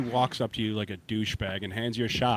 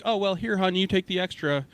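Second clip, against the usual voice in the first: casual, higher-pitched imitation of a waitress; nonchalant waitress; 8 semitones higher than usual. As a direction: toss it off lightly, pitched up, as a retold waitress. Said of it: "like, nonchalantly".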